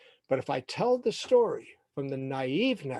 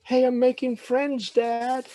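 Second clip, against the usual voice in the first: put-on high, excited boyish announcement; proud calling out; 9 semitones higher, 3 dB louder than usual. Boy telling his dad of new friends, proud call. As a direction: call out the good news.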